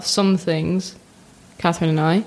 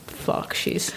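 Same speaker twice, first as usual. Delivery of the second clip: panicked whisper; 8 dB quieter than usual. Retold or imitated. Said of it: "And I'm like".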